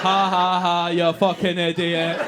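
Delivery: put-on slow, jeering Scottish accent; drawn-out Scottish mockery; mocking Scottish people. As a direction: jeer with a fake Scottish laugh. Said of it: "hear the Scottish people laughing already".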